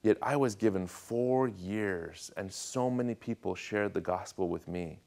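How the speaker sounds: slow, softened, earnest plea; heartfelt. Retold or imitated. Young convert confiding in his pastor, heartfelt. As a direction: draw it out quietly, weighing each phrase. Tearful confession to pastor, retold.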